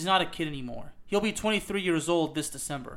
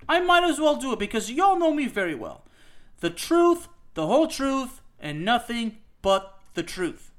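higher and louder, then easing down; emotional outburst; 4 semitones higher, 3 dB louder than usual. Real, not acted. Host venting frustration at the national team, rising then settling. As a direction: burst out on "The truth". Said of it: "I will probably get very emotional".

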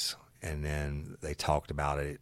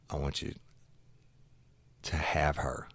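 retold hushed line. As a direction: drop to a hushed whisper on the quote.

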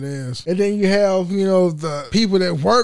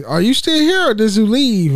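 raised, higher-pitched questioning quote; louder, imitating a coworker checking up; retold wondering question; 4 semitones higher, 4 dB louder than usual. Coworker wondering if he left, retold questioning.

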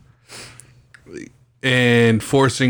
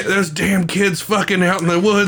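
Scooby-Doo villain; 7 semitones higher than usual. Retold or imitated.

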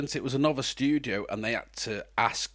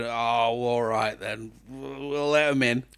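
imitating Disney. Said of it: "I very much doubt they sound like that".

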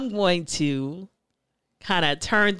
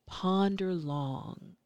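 spoken word poem. Acted. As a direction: recite it like a spoken word poet. Poet recites her name poem.

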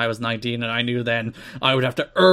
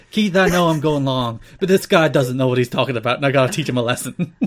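Dusty impression; 3 dB louder than usual. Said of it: "he's like".

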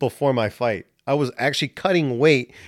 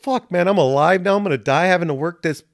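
higher, louder panicked rant; 6 semitones higher, 4 dB louder than usual. Retold or imitated. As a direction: spiral into money panic.

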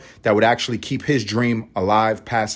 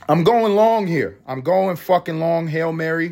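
mock sports call; 6 semitones higher than usual.

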